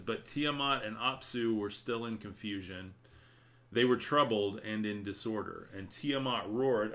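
reading while fighting off a sneeze; holding back a sneeze. Real, not acted. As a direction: hold in a sneeze as you read. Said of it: "I'm trying not to sneeze".

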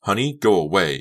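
tight, controlled anger; through clenched teeth. A narrator's reading. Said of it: "she said through clenched teeth".

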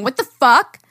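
retold exclamation. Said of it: "it was me going".

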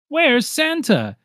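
yelling. Acted. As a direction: shout from the crowd. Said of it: "someone yelled".

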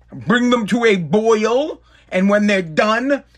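very slow, step by step; walk through it slowly; slow recipe steps. Real, not acted.

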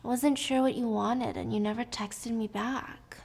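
soft whiny excuse; mild whining. Acted. Husband excusing himself to wife, whining. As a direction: make a sulky excuse, slowing at the end. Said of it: "he's kind of whining".

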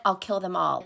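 flat, lifeless monotone; deadpan monotone killing calm. Retold or imitated. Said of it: "She's so monotone".

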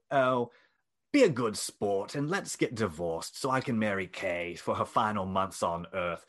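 put-on wobbly English accent. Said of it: "that accent was all over the place".

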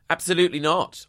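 mock snooty refusal.

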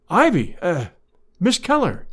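rising startled exclaim; surprised exclaim. Acted. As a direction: caught off guard, blurting. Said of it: "he exclaimed".

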